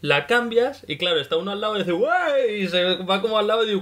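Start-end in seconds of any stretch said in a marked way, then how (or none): 1.9-2.6 high, airy little "guay" from a teammate; lightly cartoonish companion voice; mock buddy. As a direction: chirp it like a carefree friend.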